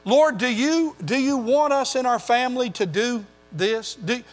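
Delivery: a hint of anxious praying; questioning prayer. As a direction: imitate a believer asking God, growing urgent. Acting out a believer's questions.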